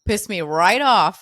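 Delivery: bristling at being told no; retold indignation. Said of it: "I'm like".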